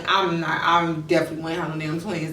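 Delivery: low, dismissive retold refusal; stank and stuck-up. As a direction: act a little too good for it. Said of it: "stank and stuck up".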